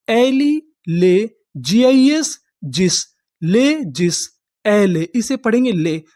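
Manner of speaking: slow syllable by syllable; drawn-out chunks for the class; spelling it out by codes. Shown as a demonstration. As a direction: sound out each piece. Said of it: "teacher sounds out word by code".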